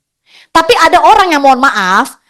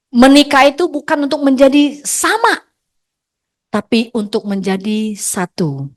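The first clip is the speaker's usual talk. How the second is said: sincere advice. Real, not acted. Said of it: "marriage wisdom".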